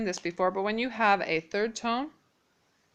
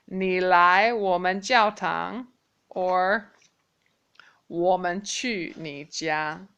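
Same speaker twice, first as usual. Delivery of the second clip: slow model; slower than usual. Shown as a demonstration. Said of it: "let me try this one more time".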